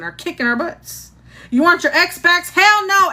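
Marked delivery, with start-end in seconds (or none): 1.5-3.1 higher-pitched indignant refusal; high, punchy comic indignation; mock outrage. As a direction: scoff at the very idea, pitched up high. Mock outrage at exes returning.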